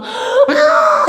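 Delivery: sudden high far cry; demon's cry. Acted. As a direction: let the demon shriek out. Demon cries out leaving. (귀신이 내지르는 높은 비명)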